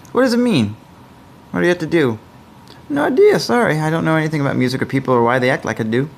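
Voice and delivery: high, puzzled and apologetic; lightly voiced bewildered stranger. Answers as game character.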